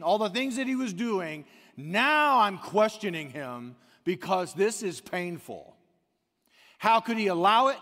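loud, high preaching cry, slowing in the middle; preacher voicing a hurting believer's doubt, loud and high; anguished outcry. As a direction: let the pain break out. Preaching believer's pain, rising.

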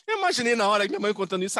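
ordinary talk

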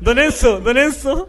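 playful call to don Enzo; mock calling out.

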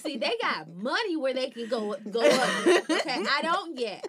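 laughing while ranting. Real, not acted. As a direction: talk through the laughter. Laughing rant about money.

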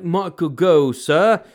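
prim British butler accent, measured and slow; Michael Gough impression. Shown as a demonstration. Podcaster showing how a butler talks, prim British accent. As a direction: demonstrate proper British butler speech. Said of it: "supposed to be prim and proper".

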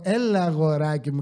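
mock patronizing sweetness; condescending. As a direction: imitate her talking down to him. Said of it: "και υποτιμητικά".

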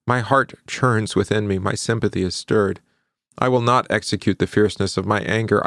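measured, formal Bible reading voice; scripture reading. Acted. Pastor reading Hosea to the congregation, solemn scripture reading. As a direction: read the prophet's words with weight. Reads Hosea chapter aloud.

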